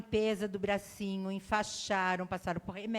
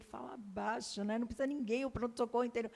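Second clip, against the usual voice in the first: much softer, begging him to keep it down; hushed plea; 8 dB quieter, faster than usual. Retold or imitated. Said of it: "E eu falava pra ele".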